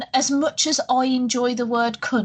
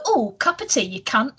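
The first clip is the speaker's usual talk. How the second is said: parody Brit. Retold or imitated. Asking if Brits really talk so, parody voice. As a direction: send up how outsiders think Brits talk. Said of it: "Do we just go".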